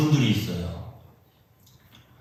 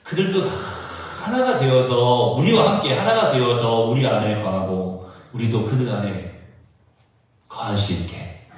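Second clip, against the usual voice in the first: scripture reading; 2 semitones lower than usual. Acted. Reads scripture aloud, quietly.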